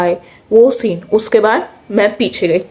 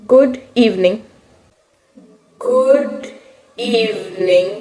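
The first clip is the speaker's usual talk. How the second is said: frozen stage-fright greeting; much slower than usual. Retold or imitated. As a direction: stammer out "good evening" like a terrified kid on stage. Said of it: "और वहीं मैंने सब गोबर गणेश कर दिया".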